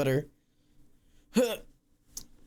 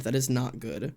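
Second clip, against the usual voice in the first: ordinary delivery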